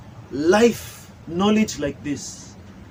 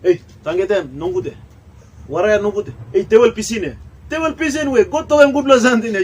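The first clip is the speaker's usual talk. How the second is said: mock quarrel; 3 semitones higher than usual. Voicing quarrel between brothers.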